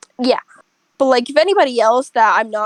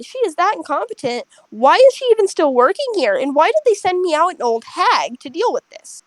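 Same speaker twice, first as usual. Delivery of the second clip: mock rant; 5 semitones higher than usual. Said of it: "she goes off on her".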